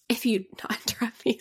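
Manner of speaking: quick, hushed bit of sass; a half-hearted sassy retort under the breath. Pretend. Friend teasing co-host for interrupting, sassy. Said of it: "sorry, that was so sassy".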